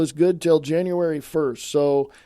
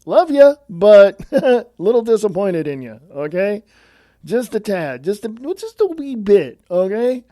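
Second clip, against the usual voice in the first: mock-sweet, sarcastic reassurance, a bit higher; 4 semitones higher, 5 dB louder than usual. Real, not acted. Host telling Christian listeners off with fake sweetness, sarcastic. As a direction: say it sweetly but mean the opposite. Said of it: "I'm being sarcastic, by the way".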